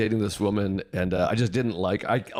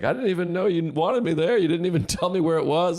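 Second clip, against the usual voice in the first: mock whiny girlfriend; 8 semitones higher than usual. Girlfriend complaining about funeral.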